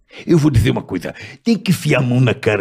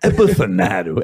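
Lula impression. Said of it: "Ele fala assim, ó".

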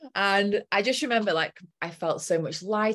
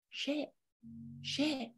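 panicked; 8 semitones higher, 11 dB quieter than usual. Retold or imitated. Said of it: "scarcity freak out".

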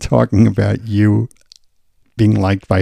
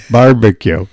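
imitated drive-thru Indian accent; 4 dB louder, slower than usual. Drive-thru worker to customer, Indian accent. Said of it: "he was an Indian dude".

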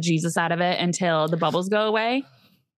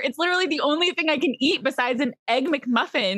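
sassy reply; 6 semitones higher than usual. Retold or imitated. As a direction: brush it off, sassy. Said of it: "I'm like".

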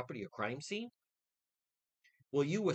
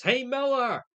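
loud, higher mocking shout; mock yell; 9 semitones higher, 9 dB louder than usual. Host mocking imagined voices, loud mock yell. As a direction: holler the name as an imagined heckler. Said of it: "they're yelling".

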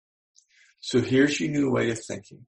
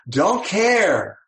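loud, high, careless shout; brain shouting back; 7 semitones higher, 6 dB louder than usual. Acted. The brain shouts back to the speaker, loud and careless. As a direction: fling it off, not caring at all.

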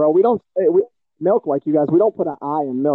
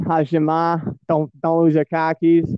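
fake Boston accent; slower than usual. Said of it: "I'm just throwing out all my fake accent".

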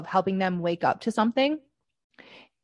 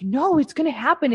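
insistent believer, higher and louder; mock the relatives' certainty; imitating relatives; 7 semitones higher, 3 dB louder than usual. Relatives insist the Q prophecy will come, mock higher voice.

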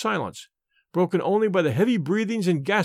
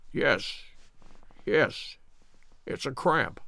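soft, faint sickbed murmur; weak, pained; 3 semitones lower, 6 dB quieter, much slower than usual. Acted. Sick man admitting his pain, weakly. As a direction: answer feebly through the cramp.

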